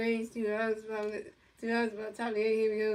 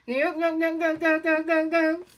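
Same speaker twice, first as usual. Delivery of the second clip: cheering go go; 6 semitones higher, 6 dB louder than usual. Real, not acted. Cheering on the play.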